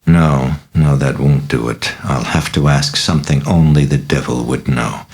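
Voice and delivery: ordinary delivery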